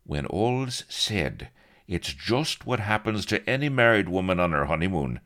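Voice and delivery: breezy, uncaring dismissal; callous. A narrator's reading. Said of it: "He shrugged callously".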